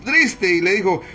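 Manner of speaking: measured, solemn Bible reading; preacher reading Daniel to the congregation, solemn; scripture reading. Acted. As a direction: read the passage like a preacher at the pulpit. Reads the scripture passage aloud.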